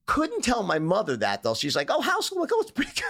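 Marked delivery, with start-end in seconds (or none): 1.9-2.4 much higher, sing-song imitation of his mother; mock mom voice. Mother checking on her son's schooling, a high sing-song mock mom. 2.5-3.0 very high, falsely cheery reassurance; mock breezy lie. Son hiding his dropout from his mother, falsely bright. Lying to mom about school.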